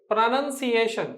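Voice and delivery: ప్రొనౌన్సియేషన్ as pruh-nun-see-AY-shun; teacher's model of ప్రొనౌన్సియేషన్, "nun" not "noun"; correct pronunciation. Shown as a demonstration. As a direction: say ప్రొనౌన్సియేషన్ with a short "nun" second syllable. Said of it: "ప్రొనౌన్సియేషన్ అనాలి".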